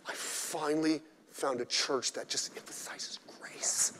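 breathy, slow relieved whisper; mock whisper. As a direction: sigh it out like a relieved convert, mocking. Mocking a grace-only churchgoer.

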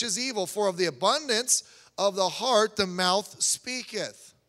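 measured scripture reading. Acted. Preacher reading Luke to the congregation, measured. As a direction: read the verse with weight and cadence.

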